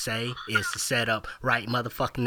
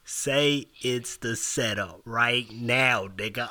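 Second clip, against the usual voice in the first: very slow, every word spelled out; slow insistent demand; slower than usual. Shown as a demonstration. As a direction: drag each word out to insist.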